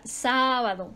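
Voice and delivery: sábado with a long SÁ; SÁÁ-ba-do, teacher's emphasis; stress on first syllable. Shown as a demonstration. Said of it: "Lo mismo pasa con la palabra".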